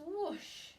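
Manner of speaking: drawn-out whoosh of air; a slow, emphatic whoosh; imitated whoosh. Shown as a demonstration. Teacher showing the class how air rushes in, whooshing.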